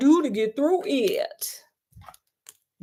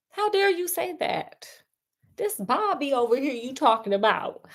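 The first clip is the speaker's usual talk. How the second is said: a hint of a singer, smooth denial; lightly voiced cheating husband swearing he never would; impression of a singer. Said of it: the speaker says they slipped into being him.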